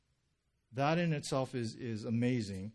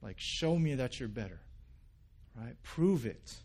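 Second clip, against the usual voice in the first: frustrated yell. Retold or imitated. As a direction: snap out the challenge in retold frustration. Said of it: "Jim yells at him like".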